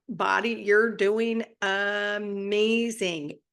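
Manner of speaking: slow, deliberate praise; slow affirmation. Shown as a demonstration. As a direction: say it like you mean it to your body.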